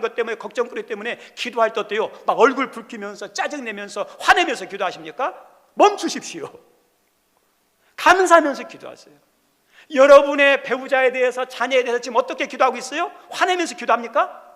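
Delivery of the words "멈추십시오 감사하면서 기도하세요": louder, higher, emphatic push on 감사하면서; urgent exhortation. Real, not acted. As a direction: call it out to the congregation. Preacher urging thankful prayer.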